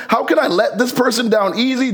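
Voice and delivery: mock diplomatic softening of a refusal; tactful hedging. Working out how to let a person down, tactful hedging. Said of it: "sort of massage it".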